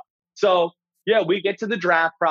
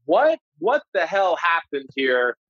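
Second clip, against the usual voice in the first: retold stunned disbelief; slower than usual. Acted stunned reaction to the pick.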